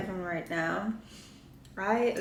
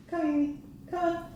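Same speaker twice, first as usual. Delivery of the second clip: high, light coaxing call; coaxing a pet; 8 semitones higher, faster than usual. Real, not acted.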